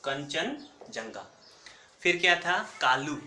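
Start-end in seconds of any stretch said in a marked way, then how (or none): 0.0-1.2 "कंचनजंगा" stretched syllable by syllable; teacher repeating "कंचनजंगा" slowly so students memorize; slow spelled-out name. Shown as a demonstration. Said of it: "mister कंचन भी आप कर सकते हो".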